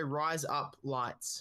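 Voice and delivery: slow, easy "rise up lights"; three unforced words, "rise up lights", falling; Australian-sounding wordplay. Shown as a demonstration. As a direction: say "rise up lights" slowly as Australian "razor blades". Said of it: "you don't think about it".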